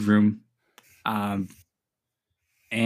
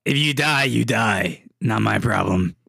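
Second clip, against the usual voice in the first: evil voice; 3 semitones lower, slower than usual. Acted. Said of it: "you hear the evil voice go".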